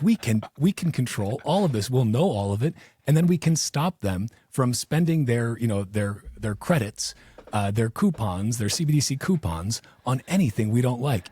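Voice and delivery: mock his glee as he lays out the control plan; gleeful official. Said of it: "And he's so gleeful".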